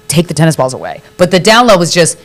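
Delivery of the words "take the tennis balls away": quiet, understated certainty; calm knowing voice. Retold or imitated. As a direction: state it calmly, like an inner knowing. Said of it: "and it was calm".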